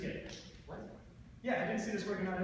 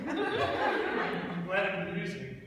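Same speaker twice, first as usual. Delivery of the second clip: sarcastic laugh; 3 semitones higher, 7 dB louder, much slower than usual. Acted.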